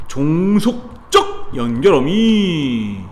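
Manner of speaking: 종속적 연결어미 drawn out slowly, each syllable stretched; slow emphasized term. Shown as a demonstration. Teacher stretching 종속적 연결어미 for students to memorize. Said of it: "teacher drills the term".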